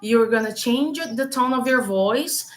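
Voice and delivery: lightly voiced English command to herself; self-command in English. A hint of a firm inner coach telling herself to speak English. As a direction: tell yourself firmly to switch voice. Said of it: "como se eu desse um comando pro meu cérebro".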